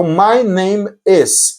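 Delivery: slow teacher's "my name is", each word separate; demonstrated pronunciation. Shown as a demonstration. Teacher showing how "my name is" is pronounced, slowly. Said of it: "é assim que pronuncia".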